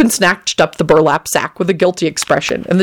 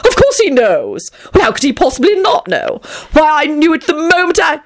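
Tony, affected and gushing; 10 semitones higher than usual. A narrator's reading. Tony haughty.

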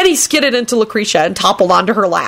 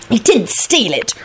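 slow, raised, irritated retort; irritable; 4 semitones higher, slower than usual. A narrator's reading. Rosie contradicting Kenny, irritably. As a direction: correct him with irritation. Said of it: "Rosie replied irritably".

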